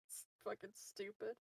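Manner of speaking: trying to talk through giggles; amused, words breaking into laughter; giggly. Real, not acted. Player cracked up by a mispronounced name, giggly. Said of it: "making me giggly".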